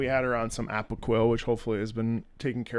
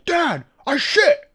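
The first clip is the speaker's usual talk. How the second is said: very high squeaky mock little-girl voice; dog's voice; 14 semitones higher, 7 dB louder, much slower than usual. Owner voicing his dog announcing she pooped. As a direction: announce it like a proud toddler. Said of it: "we have a voice for it".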